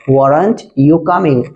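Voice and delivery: weren't you coming drawn out slowly word by word; teacher repeating "weren't you coming" at half speed; slow clear repeat. Shown as a demonstration. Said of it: "said twice, normal then slow".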